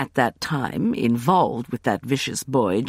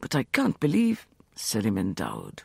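hard flat voice; 4 semitones lower, 3 dB quieter than usual. Acted. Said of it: "Sethos said in a hard, flat voice".

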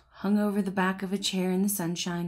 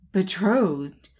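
louder, shocked exclamation; exclaimed; 6 dB louder than usual. Acted. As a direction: blurt it out in dismay. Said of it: "exclaimed the collar".

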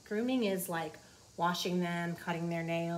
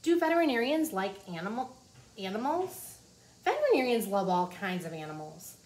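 put-on reading to children. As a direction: clear storybook read-aloud. Reading the book aloud.

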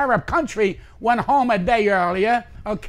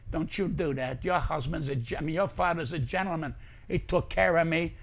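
softly voiced lady; 7 semitones lower, 10 dB quieter than usual. Lady's quoted plea to daughter.

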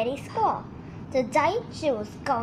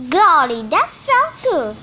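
a gorilla surfacing from cold water; gulping golly; 8 dB louder than usual. A narrator's reading. Gorilla gulping after plunging in the brook. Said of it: "Gertie gulped".

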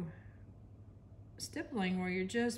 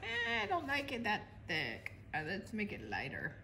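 whiny voice; 5 dB quieter than usual. Pretend. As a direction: whine it like a fussy kid. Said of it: "That was a really whiny voice".

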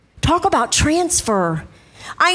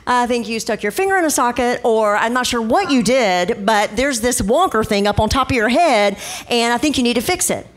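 mock sarcastic; 4 semitones lower than usual. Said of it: "I looked over and go".

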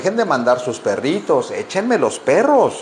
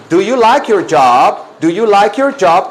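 loud, raised teacher model of the question; modelling for repetition; 4 semitones higher, 4 dB louder than usual. Shown as a demonstration. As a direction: call out the question clearly for the class. Teacher models phrase for class.

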